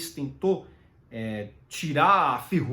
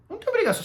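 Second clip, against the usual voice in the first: "obrigação" hit much higher and louder; emphatic insistence; 3 dB louder, much faster than usual. Real, not acted. Emphatic repetition to learners. (ênfase forte em "obrigação")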